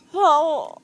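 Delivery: ordinary delivery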